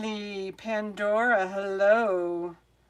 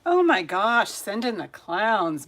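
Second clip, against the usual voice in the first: louder, mock-despairing outburst; exasperated exclamation; 3 semitones higher, 8 dB louder than usual. Real, not acted. Streamer mocks her own tech trouble, loud and exasperated. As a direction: throw up your hands at the chaos.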